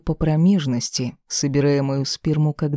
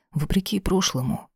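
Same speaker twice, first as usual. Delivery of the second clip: ordinary delivery, nothing marked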